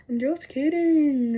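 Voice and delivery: slow, drawn-out tease; retold teasing. Guy joking to stuck girl, drawn-out tease. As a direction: stretch it out like a joker.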